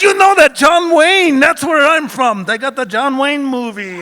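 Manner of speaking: put-on cheap Mexican accent. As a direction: lay on a cheesy Mexican accent to play the harmless tourist. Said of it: "hated my Mexican accent".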